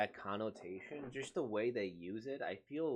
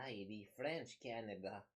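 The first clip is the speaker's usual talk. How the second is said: put-on Canadian accent. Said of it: "Canadian accents".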